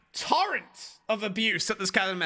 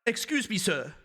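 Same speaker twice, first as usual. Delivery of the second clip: weak attempt at New Zealand accent. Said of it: "I'll try and do a New Zealand accent".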